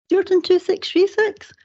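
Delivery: high, prim telephone voice, well up in pitch; mother answering the phone. Retold or imitated. Mother answering the family phone, high and prim. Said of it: "my mother's going".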